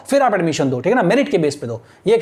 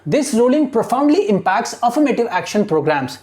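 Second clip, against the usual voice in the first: very slow, word by word reading; slow classroom dictation of English text; much slower than usual. Shown as a demonstration. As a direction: read it out slowly so students follow. Teacher dictating newspaper line slowly.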